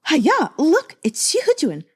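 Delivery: high, loud, thrilled calling out; excited girlish squeal. Acted. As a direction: gasp at the sight of a heartthrob. Giggling maidens spot Xi Hejun.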